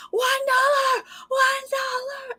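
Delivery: high, far-off yelling chant; audience scream. Retold or imitated. Audience member yelling bids at the show, high scream. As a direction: shriek it from the crowd. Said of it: "scream and yell and be like".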